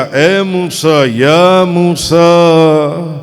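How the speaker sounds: slow drawn-out calling of Moses' name; divine call. Acted. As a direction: call out the name slowly from afar. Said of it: "اور پکارا گیا". (درخت سے آتی دھیمی پکار)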